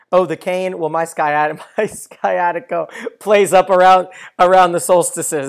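loud, hammed-up character voice; slowing, laughing character quote; Alfie impression. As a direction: put on his voice, cracking up partway. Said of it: "And he goes".

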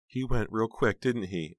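put-on high, childlike, plaintive question; little-girl-like aunt. A narrator's reading. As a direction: ask like a lost little girl. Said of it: "She sounds like a little girl".

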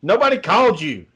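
high-pitched mock rant; going off on someone. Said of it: "she'll fucking go off on her people".

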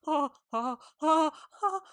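string of short, halting gasps; mock shocked gasps. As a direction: imitate speechless shock, ending in laughter. Imitates Zara's shocked reaction.

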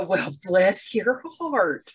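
slow, sugary Southern bless your heart; mock Southern sweetness. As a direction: drag it out sweetly. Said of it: "all you have to do is just go".

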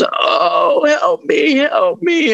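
high, thin pleading ghost wail, imitated. Retelling a ghost's plea on his recording, high wailing. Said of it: "something comes through. I mean, goes".

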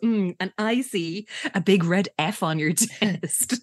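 slow sarcastic imitation of a psychic; mocking copy. Cheryl copies Jessica's psychic vision, sarcastic. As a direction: copy the fake trance to tease, slowly. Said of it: "copies her and goes".

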